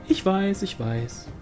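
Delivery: smooth it over lightly; mild placating tone. A narrator's reading. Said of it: "beschwichtigte Pauline".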